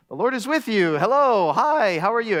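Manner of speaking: light, chirpy mock hello; casual greeting. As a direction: toss out a friendly everyday greeting. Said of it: "is really just a greeting".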